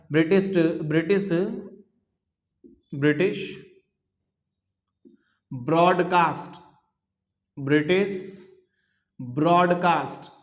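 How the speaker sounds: word by word with long pauses; dictation. Real, not acted. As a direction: dictate it for note-takers, pausing after each word. Teacher dictating words to write. (श्रुतलेख, हर शब्द के बाद रुककर)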